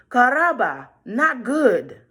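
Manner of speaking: high, loud gasp of dismay; alarmed girl. A narrator's reading. Roja seeing the wolf, high and alarmed. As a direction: react with alarm.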